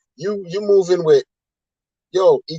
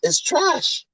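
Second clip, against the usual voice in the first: high, dismissive little verdict; mock verdict; 10 semitones higher, 4 dB quieter than usual. Vlogger mockingly opining that proof of stake is trash. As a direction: toss it off high and scornful. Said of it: "I can opine on this and say".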